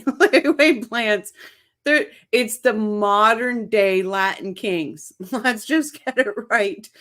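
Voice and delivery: laughter breaking into the words; can't stop laughing as you speak. Real, not acted. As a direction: talk while cracking up a little. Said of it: "I cannot stop laughing".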